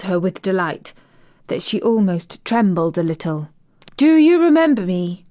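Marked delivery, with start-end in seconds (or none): 4.0-5.2 high, loud delighted call; crying out. Acted. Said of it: "she cried out".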